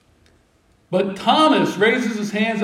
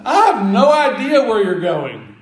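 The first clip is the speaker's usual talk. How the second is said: mock-exasperated admission, leaning hard on the opening; acted-out frank bewilderment; blunt confession; 4 dB louder than usual. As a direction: blurt it out as the one honest disciple. Thomas bluntly blurts out his confusion.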